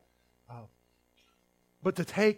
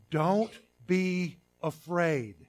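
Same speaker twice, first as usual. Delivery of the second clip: slow reassurance; 2 semitones higher, much slower than usual. Retold or imitated. Slow gentle angel reassurance.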